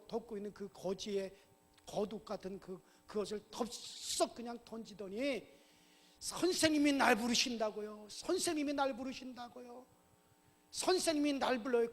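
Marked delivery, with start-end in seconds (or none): 6.2-11.9 excited disbelief. Acted. Beggar throws off cloak as teacher calls him, excited. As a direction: repeat the news with rising excitement.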